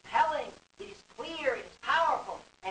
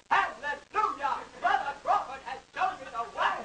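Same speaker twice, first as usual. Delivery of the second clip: mock revival shout; 3 semitones higher than usual. Students imagined shouting in hall.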